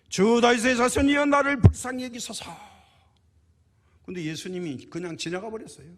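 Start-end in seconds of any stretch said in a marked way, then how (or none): 0.1-2.4 high, very loud desperate plea; full-throated shouting. Acted. Blind beggar calls after passing Jesus, shouting desperately. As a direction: cry out at the top of your voice. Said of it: "고래고래 소리를 질렀죠".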